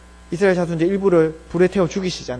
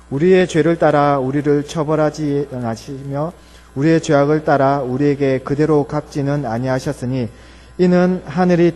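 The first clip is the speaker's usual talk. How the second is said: slow, measured Bible recitation; solemn reading in drawn-out phrases; congregational scripture reading; 3 semitones lower, 3 dB louder, slower than usual. Acted. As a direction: read the psalm aloud, slow and steady, for all to follow. Leads congregation in reading a psalm aloud.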